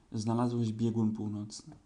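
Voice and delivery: slow, solemn proclamation; grave slow declaration; solemnly. Acted. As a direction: announce it like a ceremony. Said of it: "rzekł uroczyście".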